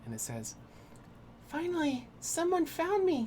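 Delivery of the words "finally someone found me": very high, small, faint woman's voice. Narrator voicing a voice from inside a sphere the players hold: faint, tiny female voice. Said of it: "a very faint, tiny female voice".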